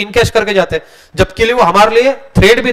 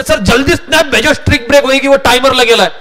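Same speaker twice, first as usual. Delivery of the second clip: higher, pleading student voice; imitating student; 4 semitones higher than usual. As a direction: mimic the panicky student begging for help. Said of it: "बोले". (घबराया हुआ छात्र, ऊँची आवाज़ में)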